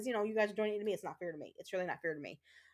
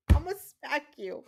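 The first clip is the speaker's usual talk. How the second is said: laughing; 5 semitones higher, 7 dB louder than usual. Real, not acted.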